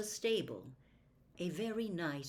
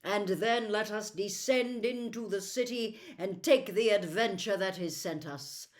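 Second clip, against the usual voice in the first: lightly voiced prince, a touch louder; prince's rallying speech; 5 dB louder than usual. Prince bidding his friends farewell, lightly voiced noble. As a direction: address them as a noble leader.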